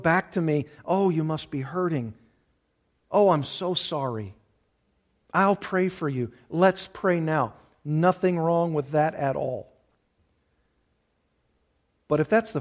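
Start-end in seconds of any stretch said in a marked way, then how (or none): 0.8-7.5 sympathetic friend. Retold or imitated. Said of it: "the pathos in their look".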